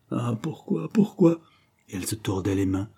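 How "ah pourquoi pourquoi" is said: high, rising into a cry; anguished lament. Acted. Confessing woman wringing her hands over Anthony's death, anguished. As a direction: lament it, the repeat higher.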